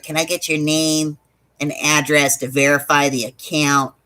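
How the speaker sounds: mildly snarky customer service agent. Retold or imitated. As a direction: imitate a bored phone agent, lightly.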